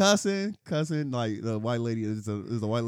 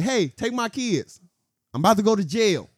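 mock tough mom; 7 semitones higher, 4 dB louder than usual. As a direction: hand off the kids like going to war. White lady before fight.

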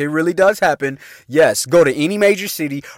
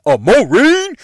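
mock surprise; 8 semitones higher, 6 dB louder, slower than usual. Echoes himself in surprise.

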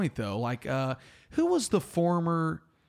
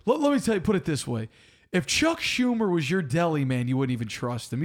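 attempted New York accent. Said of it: "I can't do a good New York accent".

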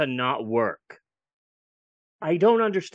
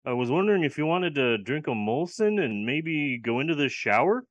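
a lightly done friendly Canadian Nazi; mock Canadian; 3 semitones lower than usual. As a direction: drop into a mild Canadian accent, eh. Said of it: "like Canadian Nazis".

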